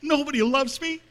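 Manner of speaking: put-on young man crying out that nobody loves him; anguished cry. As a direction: cry it out in despair. Voicing his younger despairing self.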